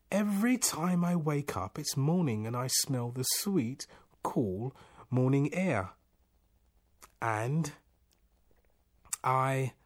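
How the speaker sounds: high-pitched, halting protest; agitated complaint. A narrator's reading. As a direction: plead your case, then falter for words. Distressed man explains his plight.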